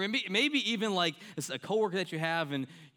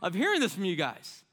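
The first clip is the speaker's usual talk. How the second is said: much higher and louder exasperated tirade; fed-up outburst; 9 semitones higher, 6 dB louder than usual. Retold or imitated. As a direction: blow up at the grumblers, loud and high. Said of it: "He's, like, saying".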